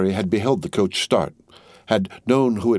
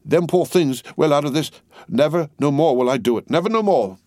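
solemn vow; 7 semitones higher than usual. A narrator's reading. Cruncher vows to Miss Pross, solemn and shaken. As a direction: swear it like a shaken man. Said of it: "spoke with an ashy and solemn visage".

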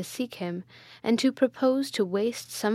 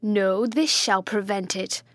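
a fierce cry with the stab; tyrant's cry; 3 dB louder than usual. A narrator's reading. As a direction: strike as you shout it. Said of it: "cried the tyrant".

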